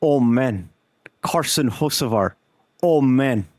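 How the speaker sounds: lightly voiced dejected racer, close to own voice; a mild, resigned "oh, man" sigh; Jordan Brunch voice. Streamer mimics a fellow racer for chat, lightly voiced and resigned. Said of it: "my Jordan Brunch impression".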